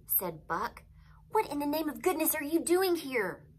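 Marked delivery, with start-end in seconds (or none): 1.3-3.5 high-pitched, incredulous demand; exasperated older brother's questioning. A narrator's reading. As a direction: scold in disbelief, voice pitched up. Exasperated brother questioning younger one.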